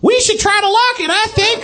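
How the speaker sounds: put-on very high squeaky robot baby. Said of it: "That's how robots talk".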